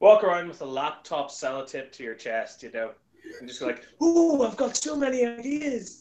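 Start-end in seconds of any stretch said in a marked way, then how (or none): 4.0-6.0 very high, slow, drawn-out voice. Suggesting a convention bit with glasses and a laptop: Russell T Davies impression. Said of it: "doing a Russell T Davis impression".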